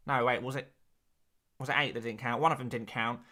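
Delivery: a hint of a dry stats presenter voice; lightly put-on nerdy stats voice; statistics voice. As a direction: deliver the numbers like a pretend data analyst. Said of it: "you reckon I could do a whole stream talking like that".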